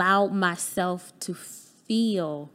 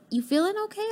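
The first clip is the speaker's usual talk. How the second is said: mom's voice; 12 semitones higher, much faster than usual. Retold or imitated. Mother answers her daughter on the phone, much higher gentle mom voice.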